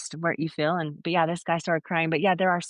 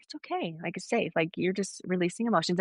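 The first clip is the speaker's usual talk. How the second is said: retold soothing words, softer; gentle reassurance; 4 dB quieter than usual. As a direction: softly reassure a tearful client. Comforting a crying client.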